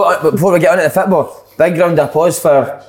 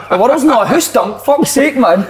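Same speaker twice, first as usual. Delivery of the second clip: mock exasperated; 8 semitones higher, slower than usual. Real, not acted.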